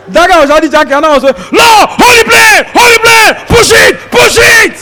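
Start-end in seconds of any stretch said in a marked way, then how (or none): 1.5-4.7 high, loud panicked pleading; fearful prayer. Retold or imitated. Comedian mimicking his own terrified prayer mid-fall, panicked shouting. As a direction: shout at God to hold the plane. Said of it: "prayer of fear".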